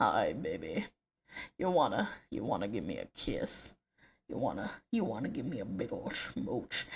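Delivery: soft, deep voice fresh out of bed. Speaker shows how they freak out a partner on waking: deep morning voice. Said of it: "I could really do a deep voice though when I'm like just woke up in the morning".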